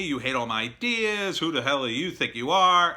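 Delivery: mild mock yell, voice lifted a little; imitated angry screaming. Co-writer exploding at the writer over rejected ideas, mildly mimicked screaming. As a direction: retell an outburst without really shouting. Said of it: "He started screaming at me".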